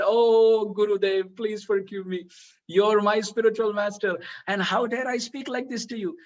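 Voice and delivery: acted-out plea, loud drawn-out opening; pleading apology. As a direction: imitate a disciple begging forgiveness. Guru begs forgiveness, prostrate.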